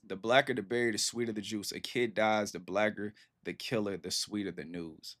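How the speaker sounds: measured recital, slowing and fading at the end; letting it resonate. Shown as a demonstration. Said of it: "You gotta let that one resonate right there".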